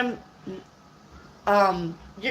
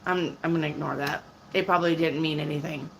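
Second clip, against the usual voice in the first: calm shrug-off; 6 semitones lower than usual. Retold or imitated. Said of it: "Just be like".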